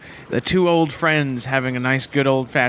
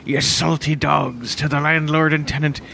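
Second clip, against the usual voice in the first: slow, lightly voiced old sea dog; pirate voice; slower than usual. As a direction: drawl it out like a hammy pirate. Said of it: "I'm doing a little funny, uh, seaman voice, pirate voice".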